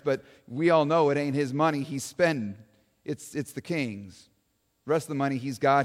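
lightly voiced folksy eyewitness; a hint of a folksy townsman talking to an interviewer; Joe the witness. Eyewitness Joe tells the interviewer Joan about his king, lightly voiced folksy.

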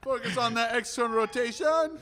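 high coach voice, every phrase end rising; rising sentence ends. Retold or imitated. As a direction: imitate a coach whose sentences float up at the end. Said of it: "his voice goes up at the end of every sentence".

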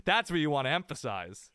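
deadpan it like a weary head coach at the podium; a hint of a gruff coach brushing off questions; Belichick impression. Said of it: "we've always heard Belichick go like".

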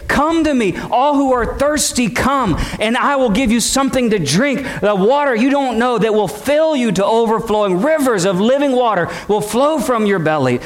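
calling out at a feast. Acted. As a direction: call the thirsty to come drink. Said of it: "and he'd say".

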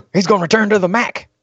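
put-on high, shocked Minnesota accent. A Minnesota fan shocked at the news, in a Minnesota accent. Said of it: "I know nobody in Minnesota talks like that".

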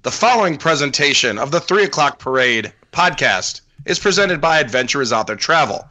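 grand ringmaster announcement. Acted. Circus announcer ad opening.

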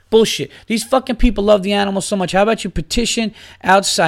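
venting, voice climbing with outrage; angry rant. Real, not acted.

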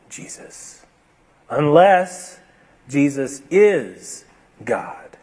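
hushed, slow whisper on "Jesus is God"; dramatic whisper. Acted. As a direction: breathe it out like a secret. Climactic claim spoken low.

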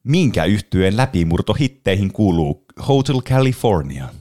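slow, drawn-out mock commercial read; ad announcer voice. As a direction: read the trivia question like a radio ad, slowly. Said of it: "yritän lukea semmoisella mainosäänellä". (hidastettu leikkisä mainosääni)

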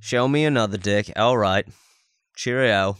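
mock British accent, played for laughs; cheeky fake British "Cheerio" voice. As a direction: put on a comic British accent. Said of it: "do a British accent".

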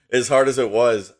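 recovering with a laugh. Real, not acted. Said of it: "I'm sorry, I'm choking on a chocolate chip".

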